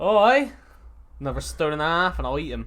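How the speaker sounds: witch voice. Pretend. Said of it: "like the witch from Hansel and Gretel".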